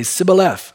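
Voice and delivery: "Sibboleth" starting on S instead of SH; mispronounced sh. Acted. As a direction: say "Sibboleth" as one who can't make an sh. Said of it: "he could not pronounce it right".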